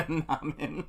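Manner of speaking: "Namin" said NAH-min, with a laugh; local pronunciation. Shown as a demonstration. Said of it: "here we say".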